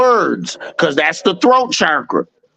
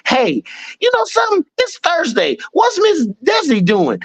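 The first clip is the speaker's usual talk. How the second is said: much higher playful voice; imitating Jazzy; 12 semitones higher than usual. Man imitating his friend's call, high and teasing. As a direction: pitch it way up, teasing and light. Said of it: "We sat to talking".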